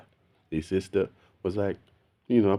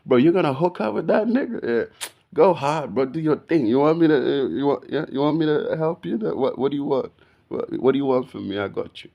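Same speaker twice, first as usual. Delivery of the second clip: excited hype; 5 semitones higher than usual. Retold or imitated. Hyping up his best friend about a guy, excited. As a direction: cheer her on, fired up and eager. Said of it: "That's how I treated my, my best friend".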